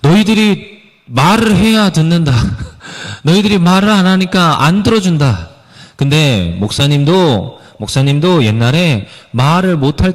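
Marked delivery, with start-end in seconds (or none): 0.0-5.5 put-on high, playful voice for kids; preaching to children, high and playful with a laugh; talking to children. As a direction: speak like a pastor to little children, higher and chuckling. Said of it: "아이들에게 설교할 때 이렇게 말합니다".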